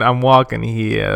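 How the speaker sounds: slow, drawn-out New York impression; New York accent. Coworker echoing his friend, mock New York accent. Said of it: "the New York accent slash East Coast accent".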